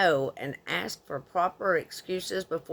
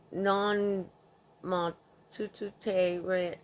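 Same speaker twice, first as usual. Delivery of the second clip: French words; 3 dB quieter, slower than usual. Retold or imitated. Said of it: "I'm not gonna try to read the French part".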